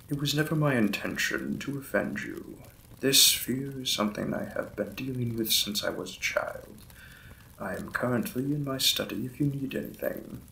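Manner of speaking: courteous lord apologizing to his new wife; lightly voiced lord's role, close to own voice; Victorian lord. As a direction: play the polite, slightly shy vampire lord.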